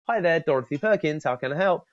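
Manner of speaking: lightly voiced chirpy receptionist. Receptionist answering the phone, a light chirpy greeting. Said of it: "someone who answers the phone and says".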